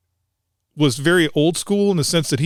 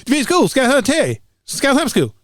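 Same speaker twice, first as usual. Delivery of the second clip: much higher, fast, gruff southern hillbilly greeting; Terry's southern hillbilly accent; 9 semitones higher than usual. Retold or imitated. Sergeant answering the sniper school phone, fast southern hillbilly accent. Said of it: "he had a very southern hillbilly accent".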